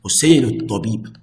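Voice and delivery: rattled off fast; quick example. Shown as a demonstration. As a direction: run the Arabic example quickly. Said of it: "if I say".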